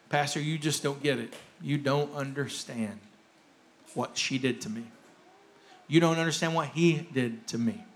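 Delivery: low, soft, understanding delivery; gentle. Real, not acted. Pastor to people dealing with pain of betrayal, gentle and understanding. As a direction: tread softly around their hurt. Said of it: "walk into this one gently".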